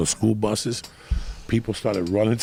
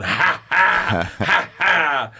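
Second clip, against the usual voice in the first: mock sly laugh; 3 semitones higher, much slower than usual. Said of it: "And Joey's going".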